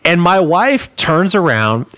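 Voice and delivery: usual speaking voice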